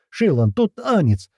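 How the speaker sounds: high, drawn-out alarm call; frantic cry. A narrator's reading. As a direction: cry out a desperate warning, high and slow. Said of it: "взорвалась истошным криком".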